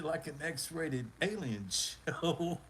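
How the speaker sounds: slowed, laughing mid-phrase. Real, not acted. Host cracking up at the chat's joke, laughing slowly. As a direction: let the laugh break into the words.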